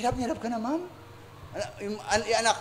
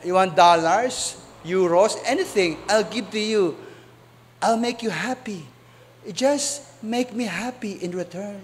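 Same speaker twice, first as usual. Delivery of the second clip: put-on British accent. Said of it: "sabi niya".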